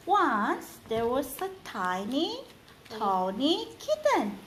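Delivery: slow, storybook reading; reading to children. Acted. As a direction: read aloud to a little one.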